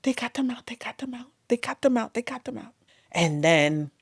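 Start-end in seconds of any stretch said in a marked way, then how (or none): 0.0-2.7 tearful relief. Retold or imitated. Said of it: "So my husband's crying".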